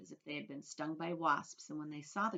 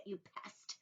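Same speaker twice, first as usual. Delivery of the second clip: hissed, voiceless insult; whispering; 4 semitones higher, 9 dB quieter than usual. A narrator's reading. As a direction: spit it in a whisper. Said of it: "the earthworm whispered".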